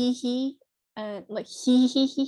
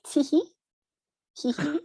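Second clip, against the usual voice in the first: high, cutesy tee-hee; cute giggle; 5 semitones higher than usual. Retold or imitated. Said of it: "use it to sound cute-ish".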